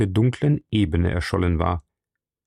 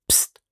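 sharp hushing psst; urgent hissed shush; 5 dB quieter than usual. A narrator's reading. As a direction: hiss for silence. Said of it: "zischte er".

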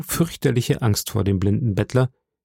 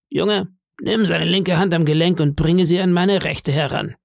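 eerie sing-song beggar; 6 semitones higher than usual. A narrator's reading. Blind beggar begging the innkeeper's boy, high sing-song voice. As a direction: lilt each phrase upward like a pitiful plea.

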